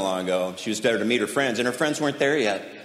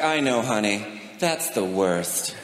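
slow, lower, drawn-out consolation; mock sympathy; 5 semitones lower, 3 dB quieter, slower than usual. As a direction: humor the daughter with fake gravity. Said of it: "My wife was like".

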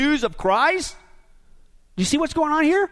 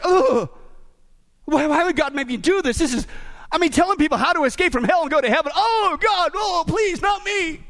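whiny complaint; 3 semitones higher than usual. Retold or imitated. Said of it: "It's like".

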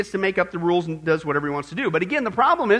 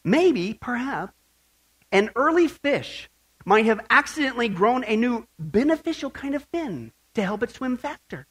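mock evolutionist quote; 2 semitones higher than usual.

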